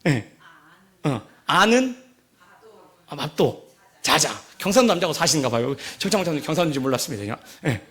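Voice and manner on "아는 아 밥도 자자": terse Gyeongsang husband; Gyeongsang dialect. Acted. Gyeongsang husband home to his wife, terse dialect. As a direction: drop each Gyeongsang phrase on its own, with pauses. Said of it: "보통 경상도 남자가 세 마디 한다고 하죠".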